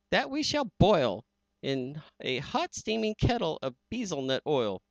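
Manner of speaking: high, gloating villain voice; hammed-up storybook bad guy; menacing villain. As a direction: sneer the threat with glee. Villain voice in Seuss reading.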